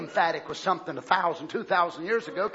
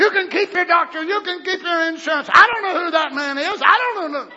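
politician's evasion; 8 semitones higher, 9 dB louder than usual. Pretend. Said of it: "these guys have been good politicians".

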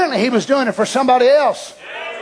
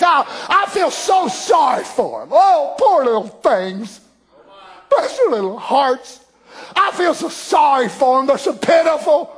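mock pity. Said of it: "It wasn't pity".

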